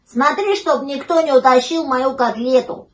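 emphatic high puppy request; puppy asking a favour. A narrator's reading. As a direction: urge it eagerly as a little pup. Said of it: "попросил щенок".

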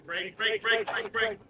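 frantic yelled brake calls; panicked shout. Acted. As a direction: yell it as they crash. Panicked yelling at rider.

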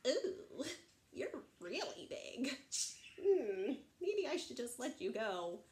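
mildly daunted troll; intimidated troll. Acted. Troll realising how big the goat is, hesitant. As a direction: back down hesitantly.

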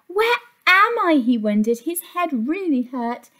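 put-on lively storybook reading for kids; reading to children. A narrator's reading. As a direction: read it like a picture book to little ones. Reads picture book aloud.

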